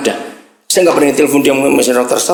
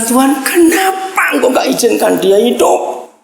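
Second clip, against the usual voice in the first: anguished plea to God; 8 semitones higher than usual. Retold or imitated. Retells crying out to God.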